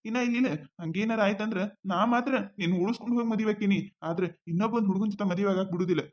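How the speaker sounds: calm her down gently, low and soft; soothing. Acted. He comforts crying girlfriend. (ಅಳುವ ಜಾನುವನ್ನು ಸಮಾಧಾನಿಸುವ ರವಿ, ಮೃದುವಾದ ಧ್ವನಿ)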